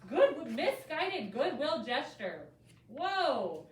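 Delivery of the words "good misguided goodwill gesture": slow and careful. Shown as a demonstration. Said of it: "three words that we might not even know".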